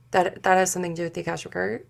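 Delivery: fast, stumbling start on "That, that"; tripping over words. Real, not acted. Healer losing her words mid-reading, tripping over them. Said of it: "tripping over my words".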